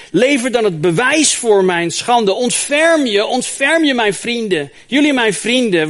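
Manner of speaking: loud, high cry of anguish; anguished Job. Acted. Job crying out to his accusing friends, loud and anguished. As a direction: plead for mercy from his friends.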